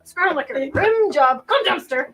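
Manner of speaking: giggling out the rude words; laughing while reciting; laughing through rooster lyrics. Retold or imitated. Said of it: "what this rooster starts screaming".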